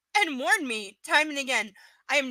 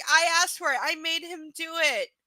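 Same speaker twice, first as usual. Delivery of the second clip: mocking repeat; 5 semitones higher than usual. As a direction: repeat "I asked for it" with pointed sarcasm. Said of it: "the line right out of the domestic violence handbook".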